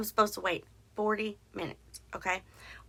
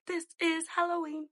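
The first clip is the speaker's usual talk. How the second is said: sing-song; 8 semitones higher, 4 dB quieter than usual. Pretend.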